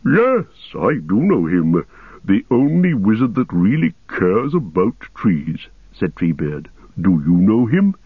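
ancient, unhurried ent voice; Treebeard voice. Acted. Treebeard speaking.

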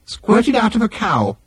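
high, slow machine voice; Nutrimatic machine. A narrator's reading. Machine querying milk in tea, high slow disbelief. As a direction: draw out the incredulous question, pitched high.

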